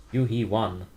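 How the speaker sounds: imitating Korean, stretched into "Yu-Hee-Wan"; Korean pronunciation. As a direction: try the Korean way of saying it. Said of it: "The way my Korean girlfriend says it".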